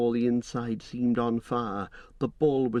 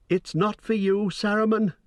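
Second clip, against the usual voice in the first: high, loud, shrill and toneless; shrill toneless cry; 11 semitones higher, 3 dB louder than usual. A narrator's reading. Possessed hobbit shrinking from Gandalf, shrill and toneless. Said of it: "he cried in a shrill and toneless voice".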